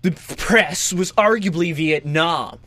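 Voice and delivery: slow, laid-back sixties hippie. Retold or imitated. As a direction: drawl it like a sixties counterculture guy. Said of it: "Can I talk like a nineteen sixties countercultural guy".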